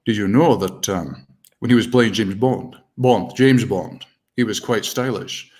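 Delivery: low, slow Scottish burr; slow Connery drawl; Sean Connery impression. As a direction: savour it like Connery as Bond. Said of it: "let's think about Sean Connery".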